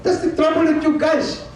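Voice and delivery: high-pitched mock scolding; imitated president. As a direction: mimic a president telling people off. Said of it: "The president said".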